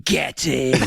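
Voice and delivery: drawn-out imitation of a triumphant catchphrase; GeoWizard. Fan imitating him when he gets something right, drawn-out cheer. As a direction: stretch it out as a gleeful cheer. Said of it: "he goes".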